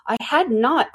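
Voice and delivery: sharp and angry. A narrator's reading. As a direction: deny it crossly, with restrained anger. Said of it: "cried the mouse sharply and very angrily".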